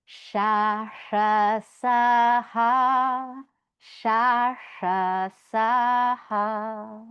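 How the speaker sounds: sha sha sa ha hissed out loud and clear; teacher modelling the sibilant row for the class; Sanskrit sibilants. Shown as a demonstration. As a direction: recite the sibilant row loudly. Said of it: "So that last line goes".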